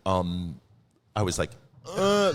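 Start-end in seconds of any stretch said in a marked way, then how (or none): 1.9-2.3 high-pitched mock character groan; Celie from Color Purple. Slow reader joking about twenty-five pages, high character voice. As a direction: put on a high, hammed-up reader's struggle. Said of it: "I'm like Seeley in Color Purple".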